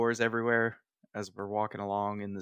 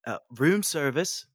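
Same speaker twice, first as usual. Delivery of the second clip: playful call; 5 semitones higher, 5 dB louder than usual. Acted.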